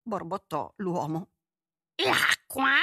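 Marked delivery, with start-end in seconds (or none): 2.0-2.7 surprised king. Acted.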